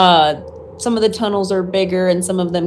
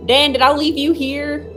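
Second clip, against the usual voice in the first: lightly acted higher-pitched call for Dan; 7 semitones higher than usual. Gran looking for Dan in her bunker, calling out. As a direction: call out as if searching, without raising volume. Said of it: "She's also calling out for Dan".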